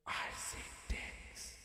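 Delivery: slow, hushed voice of God. Acted. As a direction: intone it softly, slowly, as God. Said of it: "I do the God voice".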